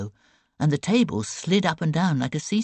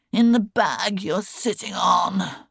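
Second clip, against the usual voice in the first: gasped; 6 semitones higher, 6 dB louder, slower than usual. A narrator's reading. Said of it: "Ivor gasped".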